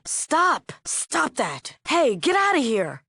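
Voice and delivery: high, sharp yelled order; alarmed shout. Acted. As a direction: shout to chase off an intruder. Ordering an intruder to stop.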